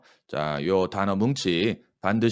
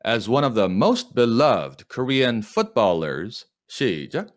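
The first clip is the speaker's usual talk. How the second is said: slow model reading; much slower than usual. Shown as a demonstration. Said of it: "제가 하는 거를 듣고 잘 따라해 보세요".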